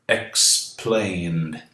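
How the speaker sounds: Explained with the ending said as a plain D after the N; model pronunciation. Shown as a demonstration. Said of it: "E D tem som de D depois de N".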